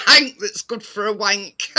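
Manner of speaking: giggling through the words; laughing. Real, not acted. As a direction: laugh while saying it. Laughing at robot name joke.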